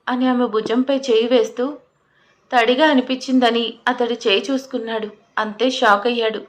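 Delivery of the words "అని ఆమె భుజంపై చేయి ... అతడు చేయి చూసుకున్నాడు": plain reading voice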